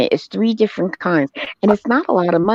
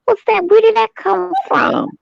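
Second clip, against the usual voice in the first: high, fast startled outcry. Retold or imitated. Retelling jumping at a noise, high fast startled outcry. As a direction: jump and ask where the noise came from. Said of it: "I jumped. I said".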